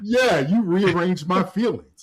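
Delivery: mock outrage. Husband joking at wife's logic, mock outrage. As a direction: protest as if deeply offended, all in fun.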